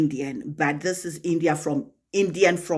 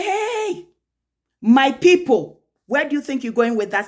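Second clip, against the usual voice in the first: outraged retort; 7 semitones higher, 5 dB louder than usual. Retold or imitated. Woman challenging the husband's remark about her people, outraged. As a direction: stretch it out, high and loud, affronted.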